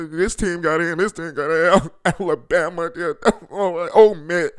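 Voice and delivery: mock the losers through laughter; real amused gloating. Real, not acted. Gloating over playoff losses.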